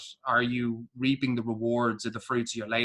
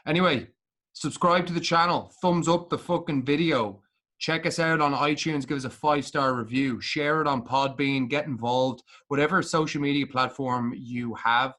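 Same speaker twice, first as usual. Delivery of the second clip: upbeat outro plug; 3 semitones higher than usual. Acted. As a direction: pitch the channel like a radio promo.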